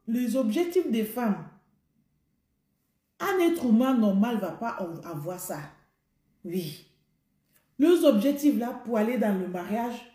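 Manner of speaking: ordinary talk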